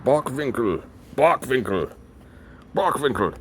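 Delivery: German-accented Bockwinkel, V for W. Shown as a demonstration. Trying out the wrestler's German name, German accent. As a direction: repeat the name as a German would. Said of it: "He probably would pronounce it".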